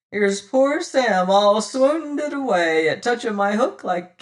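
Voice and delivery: loud, scornful address to the crew; scornful pirate captain. Acted. Pirate captain sneering to his crew, loud and scornful. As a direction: sneer at the fainted man.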